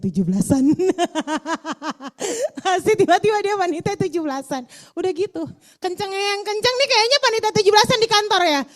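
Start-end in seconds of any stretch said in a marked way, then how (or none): 1.6-8.6 laughing, louder and higher. Real, not acted. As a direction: laugh through the punchline. Laughing at office committee joke. (sambil tertawa keras)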